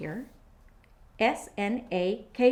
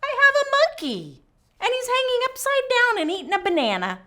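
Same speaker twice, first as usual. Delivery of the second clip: excited; 14 semitones higher, 9 dB louder, faster than usual. Real, not acted. Excited monkey reveal.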